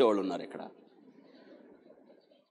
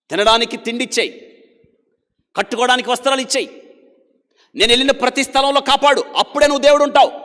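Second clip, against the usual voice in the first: loud, much higher, pushy demands; demanding bargain with God; 10 semitones higher, 9 dB louder than usual. Retold or imitated. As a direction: haggle with God like a merchant. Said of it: "ఈయన ఏం మాట్లాడుతున్నాడు చూడండి దేవునితో". (దేవునితో బేరమాడే యాకోబు, గట్టిగా demand చేస్తూ)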